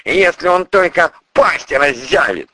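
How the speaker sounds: high, loud, menacing man; prosecutor's voice. Acted. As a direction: threat delivered loud. Character dialogue.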